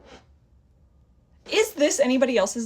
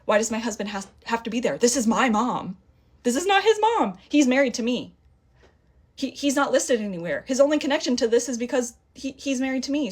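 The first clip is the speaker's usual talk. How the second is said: higher, louder, rising indignation; getting angry; 4 semitones higher, 3 dB louder than usual. Retold or imitated. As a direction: push back hard, getting heated. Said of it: "now I'm getting pissed off".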